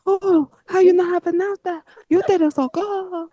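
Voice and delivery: a silly, sultry mock Russian accent; bad Russian accent. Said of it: "that's a bad Russian accent".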